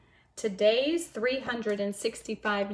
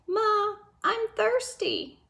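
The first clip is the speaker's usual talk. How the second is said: sleepy gosling; 10 semitones higher, slower than usual. Acted. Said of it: "he whispered".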